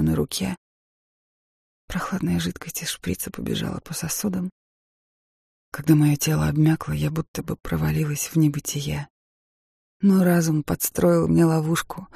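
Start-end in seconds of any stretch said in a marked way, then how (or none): none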